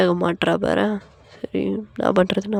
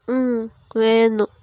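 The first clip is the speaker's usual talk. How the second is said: slow, drawn-out little yes; meek wife; much slower than usual. Acted. Wife asking husband for chocolate, meek and coy. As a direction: admit it coyly, dragging the words.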